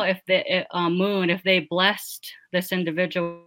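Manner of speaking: cutting out over a call; bad connection. Real, not acted. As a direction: voice breaking up on a bad line. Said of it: "You're cutting out on us".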